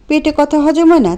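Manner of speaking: high, biting sarcastic jab on হয়; furious taunt. Acted. Priya taunting Anto for telling her secret, furious. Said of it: "ক্ষিপ্ত হয়ে বলল".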